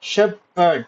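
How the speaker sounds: Shepherd split into two beats; syllable by syllable. Shown as a demonstration. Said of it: "two syllable".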